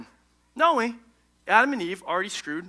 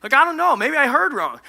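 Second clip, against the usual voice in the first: unsure Eve; 5 semitones higher than usual. Acted. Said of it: "she'd be like".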